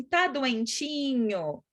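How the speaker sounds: put-on drawn-out, slow baby-talk sympathy; stretched-out pitying question to a child; cooing at a sick child. Shown as a demonstration. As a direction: coo it slowly, like fussing over a poorly child. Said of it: "Você vai olhar e vai falar assim".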